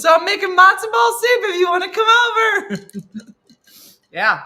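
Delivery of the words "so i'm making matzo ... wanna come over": put-on loud, high mom calling the kids. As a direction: call them over like a mom. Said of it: "She will call us".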